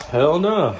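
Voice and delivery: loud pained hell no; exasperated outburst. Real, not acted. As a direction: blurt it out in pain. Asked if okay after spice.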